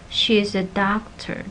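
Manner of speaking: she is a doctor, main stress on DOC; weight on the final word, doctor. Shown as a demonstration. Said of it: "That's the main stress".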